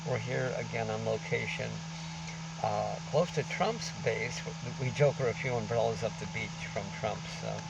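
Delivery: muffled behind a mask; through a face mask. Real, not acted. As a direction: speak through a covering mask. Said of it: "excuse the mask we're covering".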